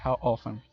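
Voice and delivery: "often" modelled with a silent t; American often. Shown as a demonstration. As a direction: repeat "How often" without sounding the t. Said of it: "lo más usual en inglés americano".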